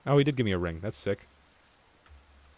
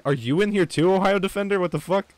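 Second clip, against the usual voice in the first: pitched way up, louder, delighted surprise; surprised; 9 semitones higher, 4 dB louder than usual. Real, not acted. Streamer to teammate Ohio Defender, surprised high call-out. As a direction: catch him off guard with a high, loud call. Spots a surprise player in game.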